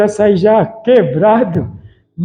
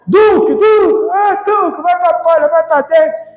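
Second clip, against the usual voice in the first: imitating wife calling dog; 6 semitones higher than usual.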